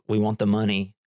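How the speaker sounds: lightly attempted German accent; badly faked Russian-German accent; terrible German accent. Nihilists demanding money from the dude, terrible German accent. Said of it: "That was a terrible Russian accent, German accent".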